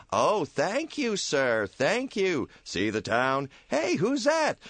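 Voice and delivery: high, meek little voice; timid angel Clarence. Acted. Angel Clarence answers his boss, meek and high. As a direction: ask it shyly, eager to please.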